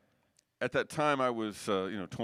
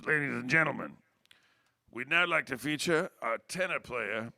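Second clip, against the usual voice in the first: mock stage announcement. Freddie introducing him on mic.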